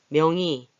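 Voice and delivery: 명의 said as myeong-i; eased 명의. Shown as a demonstration. Teacher shows how some people read 명의, easy i sound. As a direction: let the 의 of 명의 slide to a simple i. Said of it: "이렇게 쓰는, 읽는 분도 계시는 거예요".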